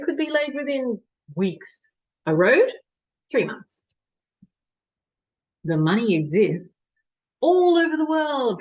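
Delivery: performed dramatic monologue with measured pauses; Doctor de Koven. Acted. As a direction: argue the case to a listener, pausing between points. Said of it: "performing a monologue of Doctor de Koven".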